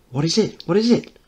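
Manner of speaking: put-on high, eager boy voice, rising; excited child. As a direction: ask like an excited little boy. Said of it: "Mickey speaking".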